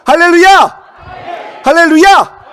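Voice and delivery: loud, high shouted acclamation; rallying shout. Real, not acted. Preacher rousing congregation after the cry, rallying shout.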